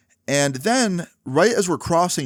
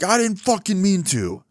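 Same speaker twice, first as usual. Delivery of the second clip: high-pitched defensive outburst; imitated angry protest; 9 semitones higher than usual. Homeless man excusing the thrown glass, imitated angry protest. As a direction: protest crossly in a raised pitch.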